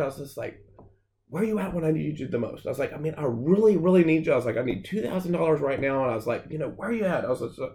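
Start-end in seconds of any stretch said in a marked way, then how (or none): 1.3-7.2 pleading up to God, higher-pitched; reliving a furious, desperate prayer; retold frustrated prayer. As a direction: demand answers, mildly worked up.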